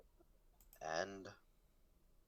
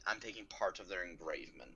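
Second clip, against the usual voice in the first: whispering; 5 dB quieter than usual. Real, not acted. Whispered aside in planning talk.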